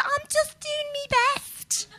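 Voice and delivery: put-on light Geordie accent, high and slow; a hint of Geordie accent. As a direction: mimic a singer's Geordie accent, badly. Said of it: "I'm not very good at accents".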